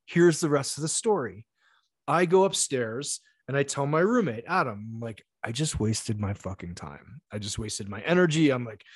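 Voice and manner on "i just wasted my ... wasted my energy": frustrated. Retold or imitated. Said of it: "super frustrated".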